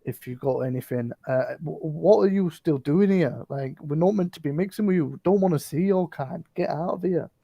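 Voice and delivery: gruff bugbear shooing them off. Acted. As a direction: hostile bugbear telling strangers off. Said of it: "he'll be like".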